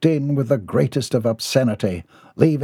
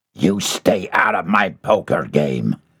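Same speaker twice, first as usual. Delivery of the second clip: low, growled, threatening tone; 6 semitones lower than usual. Reading a story aloud, voicing one character speaking to another, growling. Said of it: "he growled".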